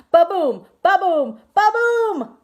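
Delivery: loud, rising booming heartbeat; pounding heartbeat. Acted. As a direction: boom it out like a racing heart.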